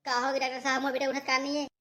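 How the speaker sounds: high keening mother; acted high-pitched sobbing lament; wailing. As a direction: wail over a son who won't wake. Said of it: "ये महिला रोवत काबर है".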